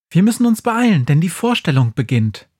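put-on high, lively old witch. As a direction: play the Christmas witch, bright and quick. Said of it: "sagt Befana".

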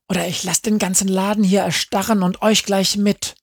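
schnelle, hohe Drohung; drohend. A narrator's reading. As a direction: droht trotzig mit allem. Befana threatens. (schnell und drohend)

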